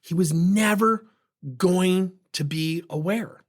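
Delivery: slow, each word weighted, stress on never; slow emphatic repeat. Shown as a demonstration. Repeating his point for listeners, slow and weighted. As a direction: lean on "never" and stretch "going to be aware". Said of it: "I'm not justifying my behavior".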